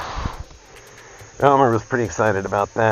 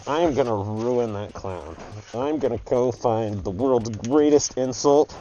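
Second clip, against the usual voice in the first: determined vow. Acted. Acted vow of revenge on clown.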